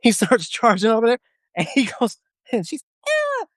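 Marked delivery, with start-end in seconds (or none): 3.1-3.4 very high falsetto "ew"; girl's exertion squeal. Retold or imitated. Female recruit straining at hip thrusts, mock high squeal. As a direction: imitate a girl's repeated squeaky effort noise. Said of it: "his universal girl impression".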